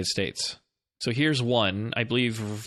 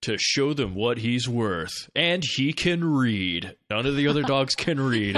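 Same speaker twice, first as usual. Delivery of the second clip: movie trailer voice. Pretend. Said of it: "trailer voice guy version of this".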